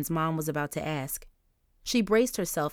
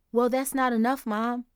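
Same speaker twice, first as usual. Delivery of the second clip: mild grumble; 5 semitones higher, 3 dB louder than usual. Acted. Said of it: "Angel grumbled".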